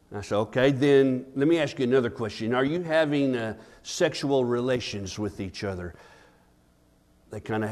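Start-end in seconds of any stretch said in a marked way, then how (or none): 0.3-5.9 softly put, lower toward the end; quiet, discreet pastor's question; retold counseling question. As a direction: lower your voice for a delicate question. Retells privately questioning a young couple.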